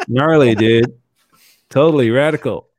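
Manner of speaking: loud put-on American surfer accent; hammed-up American surfer accent. Shown as a demonstration. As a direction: punch it out like a mock American dude. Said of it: "that's my American accent".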